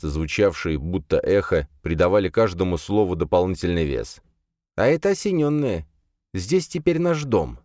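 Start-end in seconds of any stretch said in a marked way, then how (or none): 4.8-7.6 high, lisping stranger voice; slushy lisp. Acted. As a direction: lisp every word, pitched up. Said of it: "Шепелявый голос".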